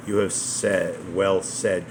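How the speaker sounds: slowly, each word checked; slow careful correction. Shown as a demonstration. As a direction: read it back slowly, word by word. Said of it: "comma, right?".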